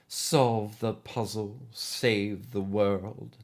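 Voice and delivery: slow, ominous and deliberate; slow veiled threat; slightly ominous. Acted. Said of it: "matched Keystairs' slightly ominous tone".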